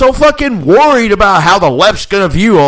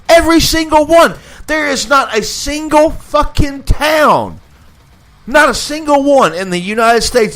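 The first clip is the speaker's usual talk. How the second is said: angry shout; 6 semitones higher than usual. Real, not acted. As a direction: hammer every word in anger. Ranting about Democrat-run cities.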